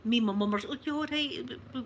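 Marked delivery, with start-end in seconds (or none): 0.7-1.1 higher-pitched, fussing concern, re-enacted; consoling. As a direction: act out comforting a hurt old lady. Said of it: "we're trying to console her".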